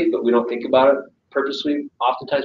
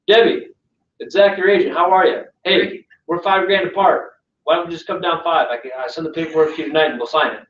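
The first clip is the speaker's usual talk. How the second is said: blunt pushy agent; 6 semitones higher than usual. Retold or imitated. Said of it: "people talk like that to people all the time".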